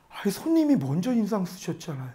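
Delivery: meek, quiet retold reply; timid clerk. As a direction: softly imitate an intimidated employee. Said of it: "무서워가지고 이 여자 직원이". (겁먹은 직원을 흉내 낸 작은 목소리)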